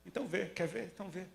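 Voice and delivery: soft, fading reassurance; gentle healing words, dropping away to a hush; tender. Acted. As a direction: say it gently, almost to yourself. Jesus's words said again softly.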